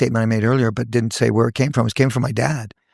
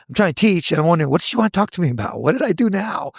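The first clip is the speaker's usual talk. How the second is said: higher, fast worried rush; anxious inner thoughts, higher and fast; anxious wondering; 4 semitones higher, faster than usual. Retold or imitated. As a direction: race through the worry, voice up.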